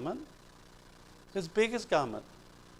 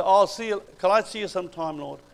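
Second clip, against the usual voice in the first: casual put-off; 3 semitones higher, 3 dB louder, faster than usual. Retold or imitated. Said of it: "he'd say".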